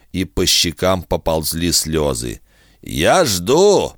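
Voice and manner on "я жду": impatient, pushy demand. Acted. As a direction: hurry them up, annoyed. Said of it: "поторопил Кусака".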